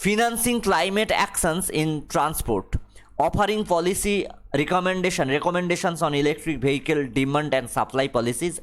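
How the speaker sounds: reads the English line very slowly, word by word; slow dictation reading. Acted. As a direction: spell it out for the class at dictation pace. Reads the list of focus areas slowly. (ধীরে ধীরে ইংরেজি পাঠ)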